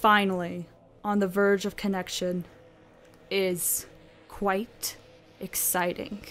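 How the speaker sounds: slow, hushed creepy reading; spooky voice. Pretend. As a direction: read it like a creepy stranger. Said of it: "Do it in a spooky".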